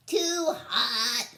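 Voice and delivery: high, loud little alien rejecting; Niklawizka's complaint. Acted. Niklawizka rejects the planet, loud and high. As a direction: shout it up high and picky. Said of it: "said Niklawizka".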